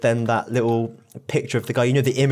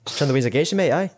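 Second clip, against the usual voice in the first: put-on Scottish accent; 5 semitones higher than usual. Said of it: "Like that Lemmy sketch".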